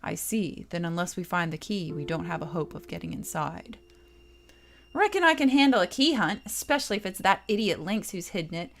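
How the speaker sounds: a hint of swagger about sniffing out the key; boastful Kid. Kid boasting to the party about finding the key, lightly voiced and cocky.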